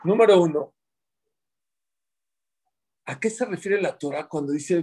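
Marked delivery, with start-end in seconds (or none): 0.0-0.7 louder to be heard. Shown as a demonstration. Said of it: "Ya me regañaron que no se oye".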